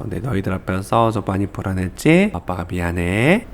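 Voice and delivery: a dad calmly saying sorry to his frightened daughter; reassuring father. Shown as a demonstration. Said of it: "이렇게 꼭 얘기해 주셔야 되는 거예요".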